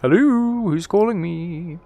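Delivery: loud, high startled hello, then a slow puzzled question; surprised hello. Real, not acted. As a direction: answer a surprise call, caught off guard. Phone suddenly rings in game.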